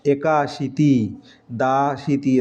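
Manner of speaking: একাশীতি said slowly; teacher sounds out একাশীতি; slow numeral demo. Shown as a demonstration. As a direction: draw out একাশীতি. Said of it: "একাশি থেকে নব্বই".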